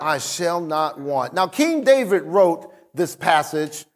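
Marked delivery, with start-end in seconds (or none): 0.0-1.3 slow and deliberate, each word weighed; slow emphatic recital. Shown as a demonstration. Pastor reciting the verse slowly with his church. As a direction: say it slowly with the congregation. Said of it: "And what will happen?".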